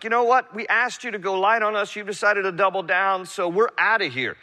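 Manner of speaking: preacher voicing Israel walking away from the king, mildly exasperated; fed-up people walking out. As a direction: toss it off like a crowd done with the king. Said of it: "It's like".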